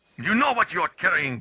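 put-on poorly done German accent. Voicing Heinrich being questioned about the train: bad German accent. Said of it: "my German accent sucks".

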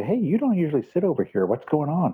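curious, nosy, interested cat voice. Voicing curious cats surprised at where the speaker sits: voicing the cats. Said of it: "'cause they go".

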